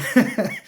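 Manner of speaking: a quick high burst of laughter; short real laugh. Real, not acted. Laughing at the thought of sleeping there after wine. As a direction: laugh it off at your own idea.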